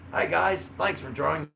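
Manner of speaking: light mock Aussie greeting; a lightly voiced imitation of a friendly host; imitating William. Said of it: "I'm getting better at imitating it".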